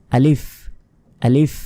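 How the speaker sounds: আলিফ said short, without drawing out the vowel; crisp teaching demo of আলিফ with no lengthening; short, no stretching. Shown as a demonstration. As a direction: keep আলিফ brief, no prolonged sound. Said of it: "কোনো টানা যাবে না".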